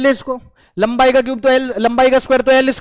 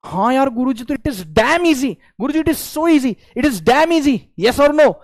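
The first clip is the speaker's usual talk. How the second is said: lightly voiced keen pupil, drawn-out words; enthusiastic student; 2 semitones higher, slower than usual. Student answering guru in the chat, playfully enthusiastic. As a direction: imitate a student gushing to the guru. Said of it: "अब मैं chat खोलूंगा और तुझसे पूछूंगा".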